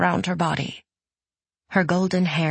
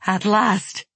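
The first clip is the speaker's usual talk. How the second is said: tearful; 4 semitones higher than usual. Acted. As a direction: murmur it through tears. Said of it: "wept Yori".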